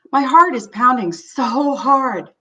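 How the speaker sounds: slow, tense, mildly acted fear; voicing panic. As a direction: press each word like a racing heart. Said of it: "your own sense of panic".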